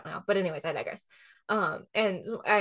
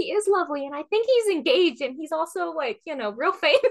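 laughing reply; 8 semitones higher, 5 dB louder than usual. Retold or imitated. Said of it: "I'm like".

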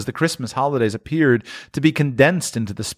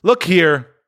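louder commanding look; ghost voice; 8 semitones higher, 5 dB louder than usual. Acted. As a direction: order him to look.

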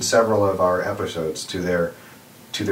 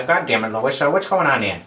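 light cartoon dad exclamation; mild mock cartoon grumble; Peter Griffin impression; 3 semitones higher than usual. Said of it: "a Peter Griffin kinda sound".

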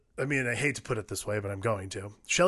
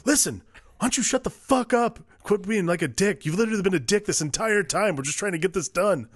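mock angry outburst; 6 semitones higher than usual. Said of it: "He's like".

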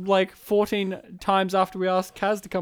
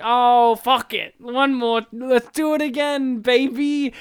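raised, rallying retold quote; retold change of heart; 3 semitones higher, slower than usual. Host recalling deciding to invite Kaz, rallying. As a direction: throw caution away, rising with enthusiasm. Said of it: "I was just like".

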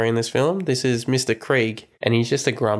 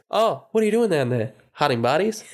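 put-on old neighbour joking; 4 semitones higher than usual. Old neighbour voiced laughing.

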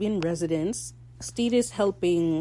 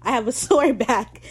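high, loud imitation of hasty excuses; mock flustered excuse; flustered explaining; 4 semitones higher, 6 dB louder than usual. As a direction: protest innocence, hammed up. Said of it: "he's trying to explain what happened".

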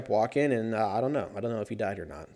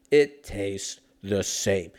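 slow, drawn-out silly voice; slow deep mock voice; 4 semitones lower, much slower than usual. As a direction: stretch it out goofy. Repeating line in mock voices.

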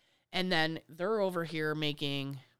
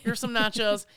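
louder brisk shooing; shooing grandparents; 4 semitones higher, 5 dB louder than usual. Retold or imitated. Grandparents sending the kids off to play, brisk shooing. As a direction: wave the kids off kindly. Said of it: "they would be like".

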